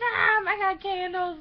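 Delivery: high, loud shriek of panic; freaking out. Retold or imitated. Girl freaking out over candles, shrieking high and loud. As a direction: shriek it like she's losing it. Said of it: "freaks out".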